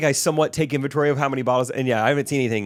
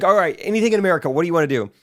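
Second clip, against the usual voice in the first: host mom; 5 semitones higher, 4 dB louder, faster than usual. Retold or imitated. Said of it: "She said".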